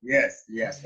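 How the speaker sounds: ordinary delivery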